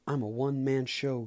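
boastful. Acted. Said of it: "McQueen boasted".

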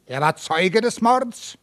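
a touch of surprise, slow question; astonished. Acted. Judge questions the neighbour, lightly astonished. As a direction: ask in mild disbelief. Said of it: "fragte der Richter verwundert".

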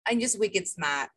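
dropped-r Boston accent, 'smart' said as 'smaht', a bit slow; slow, easy Boston drawl on wicked smart. Real, not acted. Joking about being smart in a Boston accent. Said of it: "That's your Boston accent".

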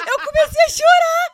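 reliving the scare loudly; excited retelling. Real, not acted. Retelling crying from fright.

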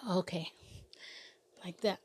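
just after a sip; words right after a swallow; while sipping a drink. Real, not acted. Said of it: "So if you hear me drinking".

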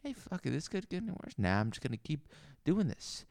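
put-on drunk Southern barfly musing; lazy put-on Southern voice. Bar character rambling monologue.

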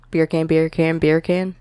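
quick-fire repeated phrase; three times fast. Shown as a demonstration. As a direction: repeat it rapidly, like a tongue-twister. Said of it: "three times fast".

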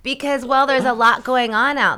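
real laughter bubbling into the words; laughing. Real, not acted. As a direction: laugh while making the point. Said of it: "I'm laughing, but I ha-, I laugh".

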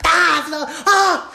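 high, loud laughing cries; laughing out loud at his own punchline; laughing shout. Real, not acted. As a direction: crack up and yell through it.

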